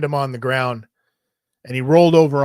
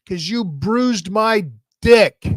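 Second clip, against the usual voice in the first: put-on whiny kid brother; 7 semitones higher, slower than usual. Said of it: "He goes".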